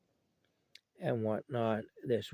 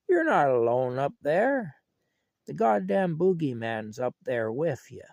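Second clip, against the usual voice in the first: loud, raised call up to the loft; retold yell; 4 semitones higher, 8 dB louder than usual. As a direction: imitate grandpa hollering the punchline upstairs. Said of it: "he yells up at the kids".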